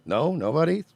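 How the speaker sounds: quietly mock their silence; passive-aggressive. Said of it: "He's just".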